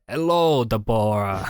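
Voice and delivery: a hint of hammy German accent; fake German accent. TV psychiatrist greeting a caller, obviously fake German accent. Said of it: "really obviously fake German accent".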